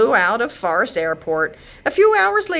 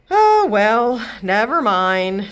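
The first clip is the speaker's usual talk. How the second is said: husband voice; 3 semitones higher, 5 dB louder, much slower than usual. Acted.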